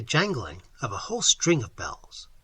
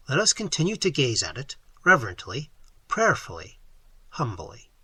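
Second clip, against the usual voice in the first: solemn. Acted. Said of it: "said I solemnly".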